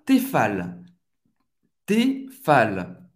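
"Tefal" with a clear closed é and a sounded final L; French pronunciation. Shown as a demonstration. Teacher modelling a French cookware brand, French pronunciation. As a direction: say "Tefal" as té-FAL, L fully sounded. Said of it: "O E tem o som do E".

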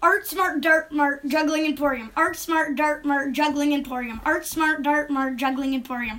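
rattled off in an even, unbroken run; fast tongue twister. Shown as a demonstration. Child answering a say-it-fast challenge, quick tongue-twister recital. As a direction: race through it like a tongue twister. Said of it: "say that four times fast".

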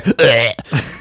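short real burp between words; burp, cutting off the sentence. Real, not acted. Host retrying a listener's message, interrupted by a burp. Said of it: "told me about your burping".

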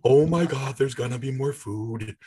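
cat suddenly springing to life; excited cat. Acted. Owner voicing cat hoping for food, sudden excited voice. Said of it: "springs to life like".

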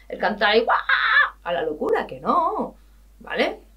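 getting carried away on a pet peeve; worked up. Real, not acted. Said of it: "¿Veis cómo me pongo?".

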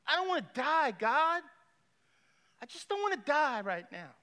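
high, loud desperate plea to God; desperate cry. Retold or imitated. Dying man begs God to let him live, in a loud, high, desperate cry. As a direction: cry it out, begging not to die.

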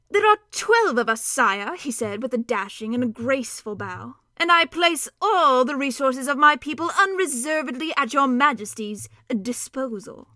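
a tiny knight offering his service; gallant mouse. Acted. Reepicheep greets the king.

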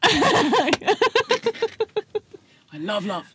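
deadpan monotone voice; deep monotone. Acted. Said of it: "Deep monotone voice".

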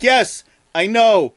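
weary Carl. Acted. Carl tired of everyone's alien stories, slow exasperated. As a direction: drag it out, fed up.

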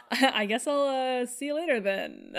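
laughing through the words. Pretend. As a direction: giggle while echoing the line. Echoing mom's line while laughing.

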